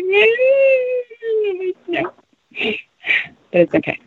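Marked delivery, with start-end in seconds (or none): 0.0-2.1 whiny. Acted. Whining about missing snow.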